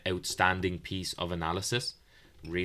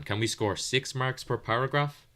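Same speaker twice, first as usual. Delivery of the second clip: mildly sarcastic, raised pitch; lightly mock-earnest questions, pitched higher; 6 semitones higher than usual. Shown as a demonstration. Teacher joking to students about being average, mildly sarcastic. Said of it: "Now, I'm being sarcastic saying that".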